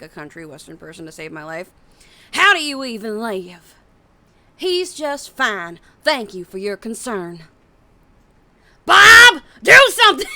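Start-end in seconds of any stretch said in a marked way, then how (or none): 2.3-7.4 put-on country western accent. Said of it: "I do Ash sometimes". 8.8-10.3 high yelling command; Ash shout. Retold or imitated. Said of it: "I do Ash sometimes".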